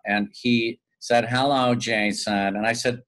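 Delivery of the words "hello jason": slow, drawn-out mimicked greeting; lightly imitated casting director, unimpressed by the caller; Warren Pincus. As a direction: stretch out a knowing hello. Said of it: "he talked like that".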